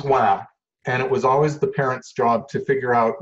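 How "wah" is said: mock baby "wah"; imitated baby wail. Speaker mimicking a fussing kid to parents, imitated cry. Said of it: "Kid goes".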